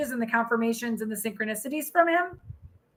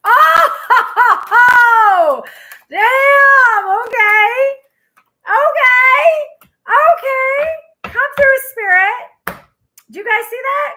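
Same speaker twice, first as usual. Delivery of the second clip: real shrieking laughter, much higher and louder; excited shriek; 10 semitones higher, 11 dB louder, much slower than usual. Real, not acted. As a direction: scream with delight at the flying card. Card flies out, she shrieks.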